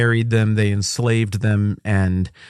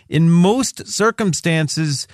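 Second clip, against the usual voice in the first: ordinary delivery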